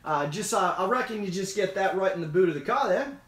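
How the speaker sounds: lightly put-on Australian; casual mock-Aussie customer; Australian accent. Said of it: "I'll try to do an Australian".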